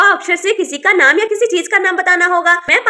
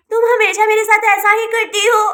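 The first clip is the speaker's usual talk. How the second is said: whiny crying; 2 semitones higher than usual. Acted. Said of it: "तुम क्यों रो रही हो बेटा?".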